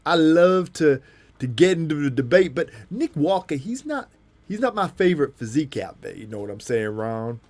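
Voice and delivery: American bodybuilder impression, stretched key words; animated, swinging pitch, mimicking a veteran champion; Lee Haney. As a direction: hold forth, punching and drawing out words. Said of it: "Oh, Lee Haney impression".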